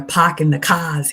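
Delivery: put-on Boston accent, dropping the r's; thick Boston accent. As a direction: mimic Bostonians saying "pahk the cahs". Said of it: "the accent is thick".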